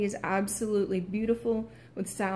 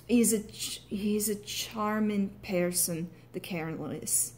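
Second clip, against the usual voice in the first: Irish accent; slower than usual. Shown as a demonstration. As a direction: try an Irish lilt on the sentence. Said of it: "might end up with a sentence like".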